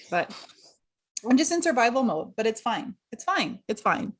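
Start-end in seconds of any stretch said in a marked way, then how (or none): 2.4-4.1 resigned, falling repeats of fine; ironic it's fine. Real, not acted. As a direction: insist you're fine while clearly not. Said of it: "I'm not crying".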